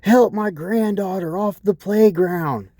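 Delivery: high, slow mock old-lady wail. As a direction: whine it like a tipsy old lady. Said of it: "she's all like".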